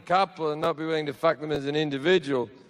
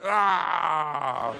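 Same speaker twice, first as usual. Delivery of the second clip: mock orgasm cry; 2 semitones lower than usual. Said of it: "pulled out and went".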